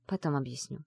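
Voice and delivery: hushed, evasive aside; evasive whisper. Acted. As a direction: keep it low, dodge the question. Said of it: "уклончиво шепнула я". (тихо и уклончиво)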